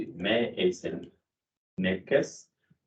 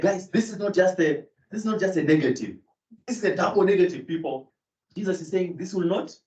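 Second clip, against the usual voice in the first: mock preaching; 9 semitones higher than usual. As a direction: preach it like a fired-up pastor. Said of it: "Imagine if you're preaching that".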